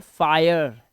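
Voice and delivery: फायर with an 'eye' vowel; teacher models the 'ai' in फायर; pronunciation demo. Shown as a demonstration. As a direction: say फायर as English "fire". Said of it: "इसे बोलते हैं".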